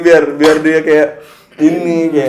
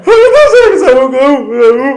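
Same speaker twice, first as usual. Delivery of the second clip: much higher, louder mock lovey-dovey voice; hammed-up sweet wife; 9 semitones higher, 9 dB louder than usual. Husband mocking the sweet apology he hoped his wife would make, hammed-up. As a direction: overplay the sugary declaration of love. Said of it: "Anjing, pecah".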